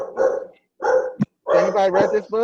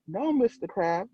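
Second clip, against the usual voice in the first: pleading; 4 semitones higher than usual. Acted.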